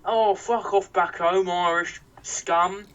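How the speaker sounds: slow, sneering put-on thug voice; mock the old fascists, dragging it out slowly. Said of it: "you fucking fascists were going".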